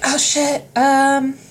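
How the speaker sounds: high-pitched panicky voice; squeaky, flustered hermit; panicked hermit. Retold or imitated. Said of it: "And he was like".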